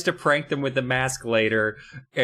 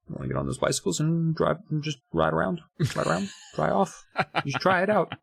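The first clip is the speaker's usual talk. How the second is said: sly fake-helpful. Twins' sly fake-helpful suggestion.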